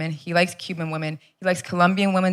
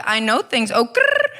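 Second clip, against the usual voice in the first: put-on Salvadoran grandma accent; 2 semitones higher, slower than usual. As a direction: trill it like a trendy Salvadoran grandmother. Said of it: "My grandma's from El Salvador".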